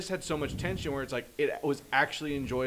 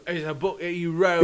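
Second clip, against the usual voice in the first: louder officer voice; quick police officer line; 3 semitones higher, 8 dB louder than usual. Retold or imitated. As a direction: rattle it off like the cop. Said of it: "'Cause he goes".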